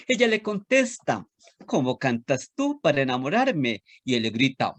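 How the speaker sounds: lilting, sing-song storytelling read; animated children's poem reading. Acted. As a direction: recite it like a rhyme for little kids. Reads a children's poem aloud.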